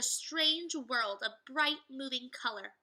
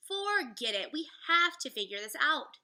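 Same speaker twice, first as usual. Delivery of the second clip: urgent Jack; 4 semitones higher, 6 dB louder than usual. Acted. Jack insists.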